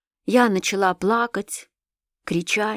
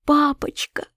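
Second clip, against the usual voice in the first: breathless whisper, higher; child whispering «Папочка» in fright; whispered plea; 7 semitones higher, slower than usual. A narrator's reading. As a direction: gasp the word «Папочка» in a whisper. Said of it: "закричала я".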